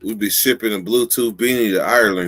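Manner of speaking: choppy robotic audio; glitchy digital voice. Real, not acted. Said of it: "You, you sounded like a robot".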